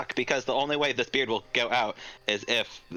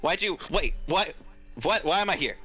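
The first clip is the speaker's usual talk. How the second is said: higher, bewildered little imp; 5 semitones higher than usual. Acted. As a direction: play a confused imp just woken up. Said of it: "a little imp going".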